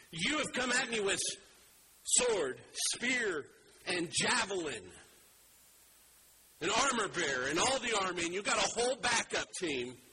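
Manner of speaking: proclaimed shout. Acted. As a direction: call it out high for both armies to hear. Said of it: "He is shouting it".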